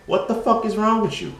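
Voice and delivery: put-on high, loud disbelieving yell at the girls; baffled outburst. To the girls who hit him as a kid, a loud baffled yell. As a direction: throw up your hands, what is this.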